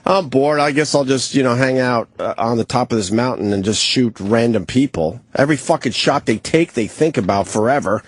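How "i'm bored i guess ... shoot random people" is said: mock bored sniper. Host mocking a lazy sniper on a mountain, high mock-bored voice. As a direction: lightly act out a bored, careless shooter. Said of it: "They're not just sitting out there like".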